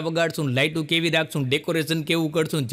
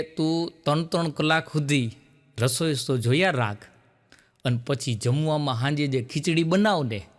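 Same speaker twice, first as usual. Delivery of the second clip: husband's dry reply; 6 semitones lower, 3 dB quieter than usual. Retold or imitated. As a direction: lower and softer, a mock husband's deadpan. Husband answers wife's question. (ઘરવાળાનો નીચા, ધીમા અવાજે જવાબ)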